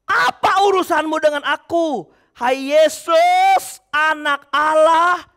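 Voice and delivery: slow, drawn-out demon shout; mild demon cry. Acted. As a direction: stretch each word like a crying demon. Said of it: "Dan dengan keras ia berteriak". (teriakan iblis yang lambat)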